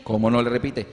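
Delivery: a hint of a fed-up mother; indignant mother.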